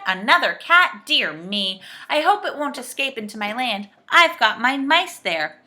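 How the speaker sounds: loud, slightly fretful voice; anxious. A narrator's reading. Saucepan man fears for his mice, anxiously. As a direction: worry aloud with emphasis. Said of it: "looked at him anxiously".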